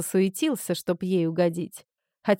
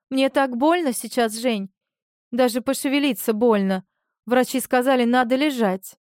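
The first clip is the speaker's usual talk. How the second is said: pitiful, pitched-up plea, faking tears; fake wailing; 4 semitones higher than usual. Marina fake-crying to Zhenya on the phone, pitiful wail. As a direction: lay it on thick with fake weeping. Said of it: "запричитала, заплакала дальше".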